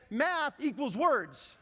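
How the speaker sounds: slow deliberate self-talk; slow mantra. Shown as a demonstration. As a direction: spell it out slowly like a mantra. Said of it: "What I did was I said".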